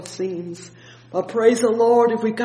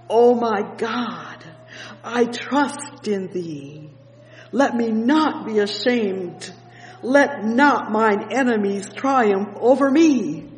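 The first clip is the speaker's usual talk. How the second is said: slow scripture reading; 3 semitones higher than usual. Acted. Preacher reads psalm verses aloud.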